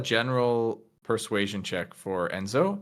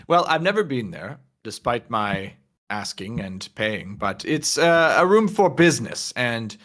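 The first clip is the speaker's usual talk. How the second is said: lightly voiced, amused old acquaintance. Game master as lounge regular gossiping about the back room, amused. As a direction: play a lightly affected, loose-tongued lounge regular.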